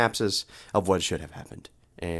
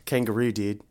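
Australian-sounding dude; Todd; 2 semitones lower than usual. Shown as a demonstration. Asked to say a test word, Australian-sounding dude. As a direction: say it in a loose Australian-like accent. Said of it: "Say kangaroo".

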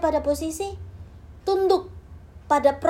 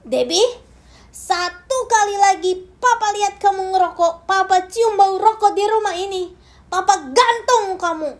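loud, raised stern threat; angry father threat; 5 semitones higher, 5 dB louder than usual. Retold or imitated. Father warns daughter he'll hang her, loud and stern.

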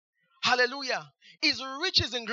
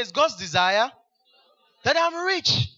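call-and-response declaration; 5 dB louder than usual. Shown as a demonstration. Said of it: "Say this after me".

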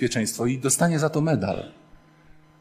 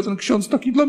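touched weeping woman; 10 semitones higher than usual. Retold or imitated. Weeping woman praises the priest.

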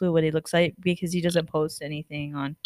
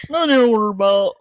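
imitating his dad; 4 dB louder, faster than usual. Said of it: "Why is that his voice?".

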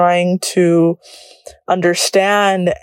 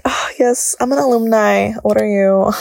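mock flex; 2 semitones higher than usual. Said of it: "nah, little flex".

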